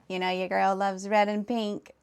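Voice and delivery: a hint of Valley Girl. Streamer reading back how chat made her sound, mock Valley Girl. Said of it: "What in the valley, girl?".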